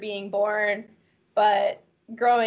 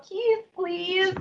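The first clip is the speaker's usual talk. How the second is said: put-on cheeky kid demand; 9 semitones higher than usual. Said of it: "I turn to the video camera and go".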